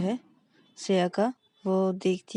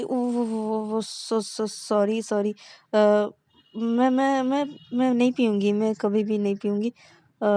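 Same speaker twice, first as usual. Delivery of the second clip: stammering, hurried sorry; flustered apology; 3 dB louder than usual. Acted. Caught smoker nervously apologising to her girlfriend. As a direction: trip over the words, nervously.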